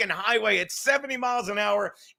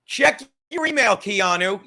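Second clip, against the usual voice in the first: calling out; 5 dB louder than usual. Real, not acted. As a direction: call it out to get her attention. Calling out to Keanu.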